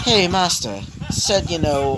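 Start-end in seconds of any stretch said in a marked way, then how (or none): 0.0-0.8 brief put-on British accent; lightly British-accented character voice.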